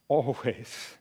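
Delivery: low, soft delivery; quiet assurance. Retold or imitated. Jesus promises to stay with the disciples, quiet assurance. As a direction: let the word settle softly and low. Repeats closing promise, contrasting takes.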